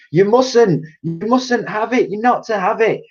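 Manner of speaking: high frantic plea; frantic boy. A narrator's reading. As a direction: keep it from her. George pleading.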